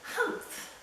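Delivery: sharp breathy scoff of disdain; humph. Acted. Sour kangaroo scoffing at Horton, a sharp humph. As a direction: scoff it out with contempt. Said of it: "humphed a voice".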